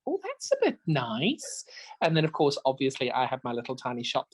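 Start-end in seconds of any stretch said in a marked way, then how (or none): 0.1-1.6 slow, high, hushed imitation of an impressed quilter; admiring whisper. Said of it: "And she went".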